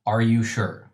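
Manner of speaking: eerie double voice asking; creepy unison. Acted. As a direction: speak like two creatures at once. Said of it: "almost in, like, a creepy unison".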